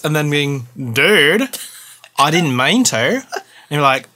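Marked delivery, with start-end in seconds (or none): 0.9-3.0 light Australian dude voice, apologetic; imitating husband's Australian accent. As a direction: do your Aussie husband. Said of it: "Justin saying".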